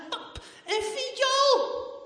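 high, loud, drawn-out laughing shout; girl shouting to dad about a violin. Acted. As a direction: shout it out, thrilled. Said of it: "En nog eens wat harder".

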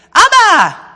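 loud high call across a busy inn. A narrator's reading. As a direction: shout for father as he storms in. Boy bursts in calling father. (jongen roept luid zijn vader)

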